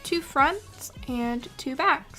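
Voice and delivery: soft, even tutorial voiceover; calm how-to narration over music. Acted.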